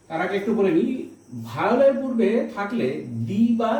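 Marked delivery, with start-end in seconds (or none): 3.3-3.4 দি said with a long "ee"; long vowel. Shown as a demonstration. Teacher showing the article before vowels, long দি. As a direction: lengthen the vowel in দি. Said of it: "দীর্ঘ উচ্চারণ হবে".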